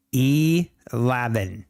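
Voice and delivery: Eleven drawn out slowly, each syllable e-lev-en placed with care; slowly sounding out Eleven to hear himself; slow careful eleven. Shown as a demonstration. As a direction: test the word Eleven by saying it very slowly. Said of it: "what am I doing wrong with saying eleven".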